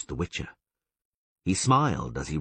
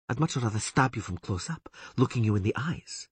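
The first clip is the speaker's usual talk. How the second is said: menacing elf woman; 5 semitones higher than usual. A narrator's reading. Elf woman threatening the bound Witcher, lightly higher. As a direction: savour the threat. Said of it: "continued the elf".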